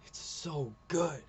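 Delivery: slow, stretched "so good"; drawn-out admiration. Real, not acted. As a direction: linger on "so" and "good", really moved. Gushing over the comic.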